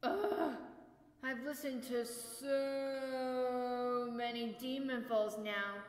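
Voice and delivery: slow, dragging boredom; worn-out sigh of boredom. Acted. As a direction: drag the words out, fed up. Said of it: "collapsed on the ground in boredom".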